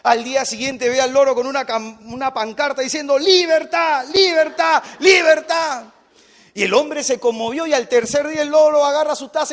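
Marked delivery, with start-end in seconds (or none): 3.2-5.9 high, loud parrot cry; screaming parrot. Acted. Caged parrot starts shouting at the neighbour, imitated high shout. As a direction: squawk it out as a repeated chant. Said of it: "comienza a gritar el loro".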